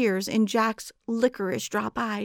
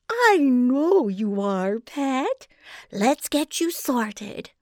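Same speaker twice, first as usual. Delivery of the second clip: slow, high, breathy whispered coo; chuckling giantess; 4 semitones higher, slower than usual. A narrator's reading. Giantess chuckling back at hungry Jack, whispered coo. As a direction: soothe the boy with false kindness. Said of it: "She only chuckled and said".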